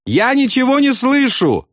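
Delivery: high, cheerful call over engine noise; smiling as he yells back; friendly shout. A narrator's reading. Friend shouts back cheerfully over the noise. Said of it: "дружески улыбаясь, откликнулся Аафрей".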